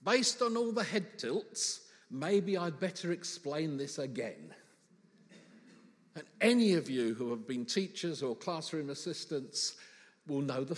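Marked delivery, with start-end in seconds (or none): 0.0-4.5 teacher. Acted. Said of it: "the teacher dog is saying this".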